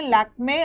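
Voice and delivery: लैक्मे ending in a sounded "ay"; लैक्मे with the accented e pronounced "ay"; final e as ay. Shown as a demonstration. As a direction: say लैक्मे as "lak-may", two syllables. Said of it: "हम इसे ए पढ़ते हैं".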